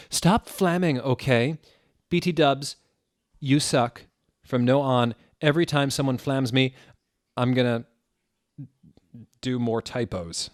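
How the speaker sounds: put-on loud, snotty teen author scolding; bratty author rant. Fanfic author scolding her critics, loud and bratty. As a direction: sneer it at the haters.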